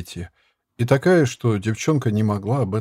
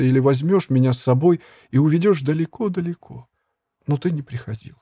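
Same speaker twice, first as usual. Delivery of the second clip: lightly voiced girl, a bit higher, pleading; a lonely girl pouring out her heart; a hint of a tearful girl's plea; young girl confiding; 4 semitones higher than usual.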